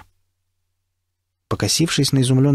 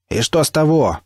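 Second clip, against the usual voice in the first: high, raised retort; shouted retort; 6 semitones higher than usual. A narrator's reading. Nikita shouting back at the stalker, defiant. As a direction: fling it back over the embankment. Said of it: "крикнул Никита".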